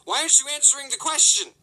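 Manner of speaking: high, loud, frustrated outburst; exasperated yell. Retold or imitated. Employee to boss during the alarm, exasperated yell. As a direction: demand an answer, raising your voice.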